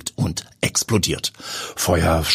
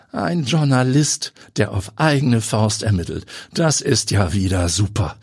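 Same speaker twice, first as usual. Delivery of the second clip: groaning; 5 semitones higher than usual. Acted. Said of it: "stöhnt Klose".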